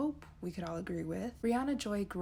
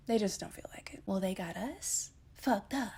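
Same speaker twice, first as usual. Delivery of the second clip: whispered aside. Real, not acted. Aside after mocking politicians.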